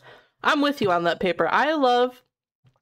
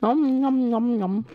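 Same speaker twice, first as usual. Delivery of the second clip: chewing nom nom; 3 semitones higher, slower than usual. Acted. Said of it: "so you can really hear me chewing".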